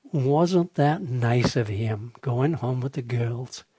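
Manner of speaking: lightly voiced, slow prim old lady; a hint of a proper elderly woman. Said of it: "with her very proper old woman voice".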